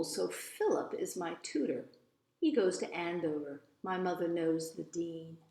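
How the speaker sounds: lively, expressive storybook reading; story narration. A narrator's reading. Eloise telling about her mother and the lawyer, storybook narration. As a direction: read it as a chatty child narrator's tale.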